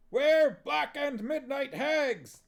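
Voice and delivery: high, loud, slow hag chant; witches yelling. Acted. Witches getting into the spirit, loud high slow yell. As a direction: yell it like gleeful hags. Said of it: "they yelled, getting into the spirit".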